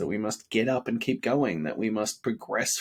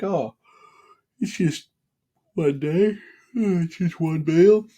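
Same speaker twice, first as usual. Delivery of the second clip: high, coaxing mock voice of temptation, getting louder; tempting inner voice; 6 semitones higher, 5 dB louder than usual. His craving talks him toward a cheat meal, high wheedling voice. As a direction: play the sly little voice that says one slip is fine. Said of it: "I feel that call to that slippery slope".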